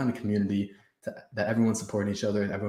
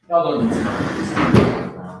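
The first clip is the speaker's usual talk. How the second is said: dragged out, slow and heavy; slow drawn-out voice; 6 dB louder, much slower than usual. Pretend. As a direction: stretch each word out slowly. Repeats line in slow put-on voice.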